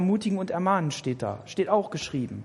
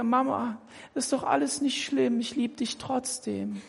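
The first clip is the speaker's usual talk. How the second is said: liebevolles Kind; 3 semitones higher, 5 dB quieter than usual. Pretend. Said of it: "strahlen sie dich an und sagen zu dir".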